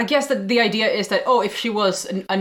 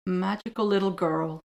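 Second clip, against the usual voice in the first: disgusted; 4 dB quieter than usual. Real, not acted.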